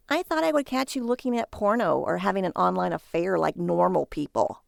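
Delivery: a hint of a scornful wife; wife teasing her husband, lightly voiced. Wife mocks Barry's hobby, a hint of scorn.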